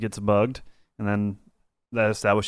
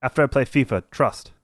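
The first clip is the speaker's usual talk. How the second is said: put-on South London accent; 4 semitones higher than usual. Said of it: "God, I gotta get in the accent".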